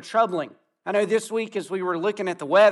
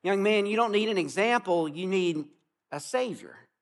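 put-on a minister gently correcting a young man, tender; clear but loving. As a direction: say it plainly but with love. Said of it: "very clearly, but very lovingly".

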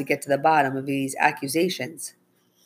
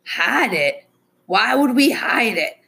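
higher, indignant questioning; incredulous; 7 semitones higher, 4 dB louder, slower than usual. Acted. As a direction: feign disbelief at the accusation, pitch climbing. Accused driver feigns innocence.

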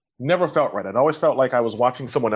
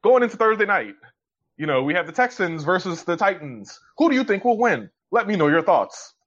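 mock announcer; 6 semitones higher than usual. Mocking generic promo tweets.

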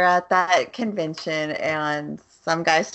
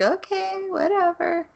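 mock dismissive shrug; 13 semitones higher than usual. Mocking the dismissive man.

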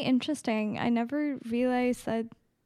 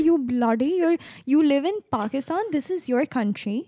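lightly imitated Russian-accented mother; mom's Russian accent. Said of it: "Does your mom have a Russian accent?".

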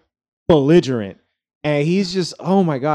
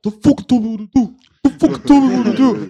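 mock drunk retort; 7 semitones higher, 4 dB louder, faster than usual. Drunk friend snapping back.

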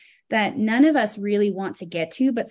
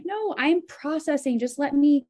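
much higher, urgent plea to be left alone; pleading exasperation; 7 semitones higher than usual. Retold or imitated. Wife pleading with her husband to let her process, high exasperated plea. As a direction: beg for space, fed up. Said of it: "and I'm like".

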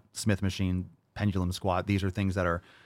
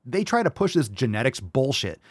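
usual speaking voice

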